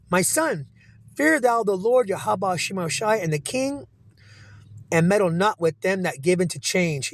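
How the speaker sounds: slow, solemn reading voice, pitched a little up; scripture reading. Acted. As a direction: read the proverb like a preacher. Reads scripture aloud.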